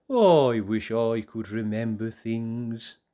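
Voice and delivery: thinking aloud. Acted. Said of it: "he thought".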